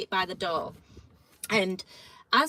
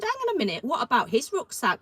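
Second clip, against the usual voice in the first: raised challenge; 3 semitones higher, 4 dB louder than usual. Retold or imitated. Challenging guard over second rucksack.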